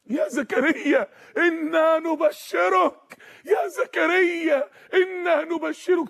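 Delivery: high, slow ringing proclamation; great heavenly voice. Acted. Angels announcing good news to Zakaria, grand heavenly voice. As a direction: draw out each word like a heavenly herald. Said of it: "وفجأة يسمع صوت عظيم".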